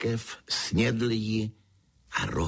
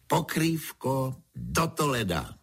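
higher-pitched, merry command; cheerful exclamation; 6 semitones higher than usual. A narrator's reading. Pedro orders the blanket to Toledo, calling merrily. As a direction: call it out merrily, like a spell. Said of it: "zvolal vesele".

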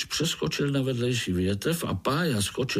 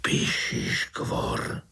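slow breathless whisper; much slower than usual. A narrator's reading. Uncle names the enemy to Pája, whispered. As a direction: hush it so he can't hear. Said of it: "zašeptal strýček".

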